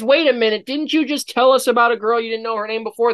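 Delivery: quick accusing "wait a minute"; mock objection. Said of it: "before anybody says".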